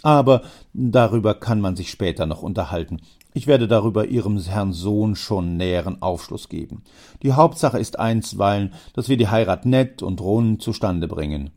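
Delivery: father Preis. Acted. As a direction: steer the talk firmly. Preis answers, louder.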